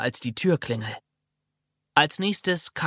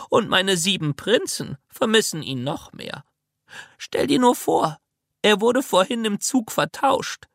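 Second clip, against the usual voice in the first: put-on old lady voice; 5 semitones higher than usual. Old lady tells of lost suitcase.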